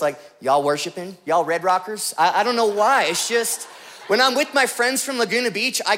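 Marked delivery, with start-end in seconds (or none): 0.4-2.1 a hint of Southern twang, pitched low; slight Southern twang. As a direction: lightly slip into a Southern twang. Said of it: "a little twang in my voice".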